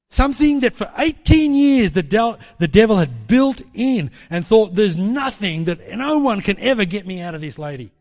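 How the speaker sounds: loud gloating devil; devil's boast. Retold or imitated. Preacher voicing the devil, a loud gloat. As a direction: crow it like the devil who thinks he's won.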